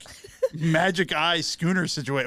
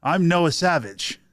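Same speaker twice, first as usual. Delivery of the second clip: announcer intro; 2 semitones higher, 4 dB louder, slower than usual. Shown as a demonstration. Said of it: "who wants to go first".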